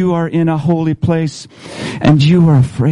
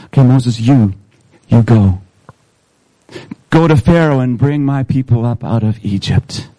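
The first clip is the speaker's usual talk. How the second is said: God sending Moses; 4 semitones lower than usual. Acted. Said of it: "the third thing God says to Moses".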